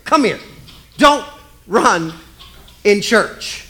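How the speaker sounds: mock scolding. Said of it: "You say that phrase".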